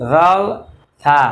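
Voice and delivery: জলসা drawn out very slowly with Arabic sounds; teacher drawing out জলসা slowly; slow Arabic jalsa. Shown as a demonstration. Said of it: "একটু এইরকম বলি".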